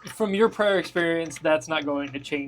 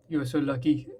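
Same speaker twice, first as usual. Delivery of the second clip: snarl; faster than usual. Acted. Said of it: "he snarls and he says".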